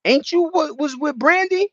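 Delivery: high, put-on quizzing voice; imitating an interviewer. Radio host grilling the rapper, high put-on voice. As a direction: ask it like a nosy radio host. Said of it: "Cam was like".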